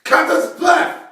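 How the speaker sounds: cartoon hero voice. Sidekick introduced as host.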